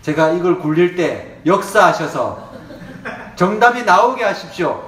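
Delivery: hammed-up desperate student praying; earnest prayer. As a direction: plead over the dice pen, half laughing. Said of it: "얼마나 간절하게 기도했는지".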